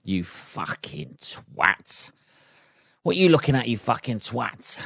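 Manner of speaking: mock road rage. Shown as a demonstration. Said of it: "it just sums up".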